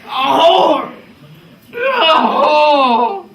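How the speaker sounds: put-on drunken shouting. Drunken quarrel with woman.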